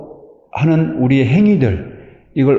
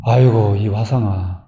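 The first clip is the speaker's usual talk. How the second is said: put-on old folks' sigh; 6 semitones lower, slower than usual. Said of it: "뭐라고 얘기를 했느냐".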